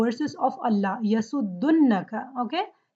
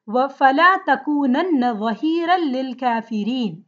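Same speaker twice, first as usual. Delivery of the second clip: intoned, measured Arabic recitation; Quran recitation; much faster than usual. Acted. Teacher recites the verse for students, recitation style. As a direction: chant the verse in flowing recitation.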